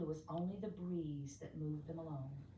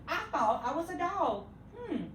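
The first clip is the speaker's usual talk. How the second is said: lightly voiced little dog; 7 semitones higher, 4 dB louder than usual. A narrator's reading. Little dog's realization.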